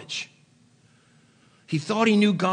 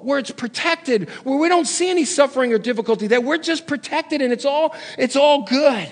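pleading friends; 5 semitones higher, 3 dB louder than usual. Retold or imitated. Friends voiced urging Paul to stay.

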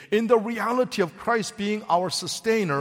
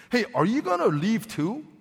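calm invitation; 2 semitones higher than usual. Shown as a demonstration. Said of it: "issuing an invitation to pivot".

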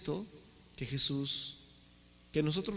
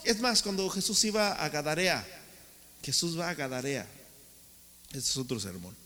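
rising, loud preacher's build; fiery sermon delivery; preaching; 3 semitones higher, 4 dB louder than usual. Acted. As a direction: preach it with mounting force. Preaching at force.

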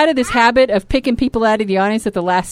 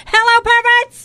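host greeting; 13 semitones higher, 4 dB louder, slower than usual. Acted. Cohost greets the audience.

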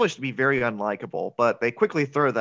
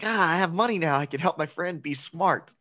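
earnest, sincere; 5 semitones higher than usual. Acted. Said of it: "he's so sincere about it".

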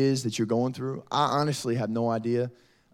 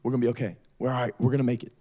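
reassuring mother; 3 semitones lower, faster than usual. Retold or imitated. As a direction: gently imitate mom comforting her child. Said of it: "holding her daughter, saying".

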